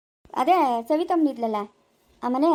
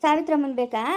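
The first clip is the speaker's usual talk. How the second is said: calling out. Acted. Mother-in-law calls out for Savitramma with a shout. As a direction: shout her name across the house.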